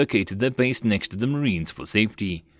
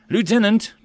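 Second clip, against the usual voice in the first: loud call across the field; 11 semitones higher, 5 dB louder than usual. A narrator's reading. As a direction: call out to him from afar. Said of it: "called out".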